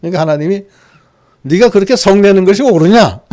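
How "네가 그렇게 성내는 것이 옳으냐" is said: a firm reproof from God; stern question to angry Jonah; God scolding Jonah, firm; rebuke. Acted. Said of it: "그렇게 책망하시는 거예요".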